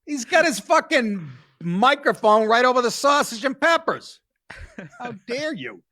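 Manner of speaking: high, laughing outrage. Real, not acted. Host laughing at reporter's mic over sausages, laughing. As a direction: crack up while mock-scolding.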